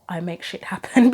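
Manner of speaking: misreading on purpose. Shown as a demonstration. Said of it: "I always get".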